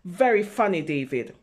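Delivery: put-on dry sarcastic older brother. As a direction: roll your eyes at the little brother. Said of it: "And his brother says".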